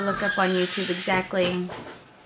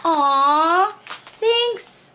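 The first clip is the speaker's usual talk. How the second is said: touched thanks; 8 semitones higher, 5 dB louder than usual. Real, not acted. Touched by gift for child.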